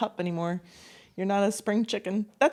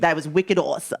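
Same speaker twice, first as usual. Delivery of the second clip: put-on Boston accent; 4 dB louder than usual. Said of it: "that's a Boston wicked".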